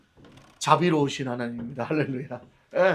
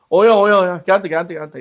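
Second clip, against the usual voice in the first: hammed-up God voice; 3 semitones higher, 7 dB louder, faster than usual. Voices God pointing to someone.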